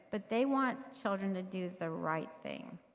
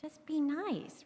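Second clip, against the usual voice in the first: mock parent scolding; 7 semitones higher, slower than usual. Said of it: "rather than saying".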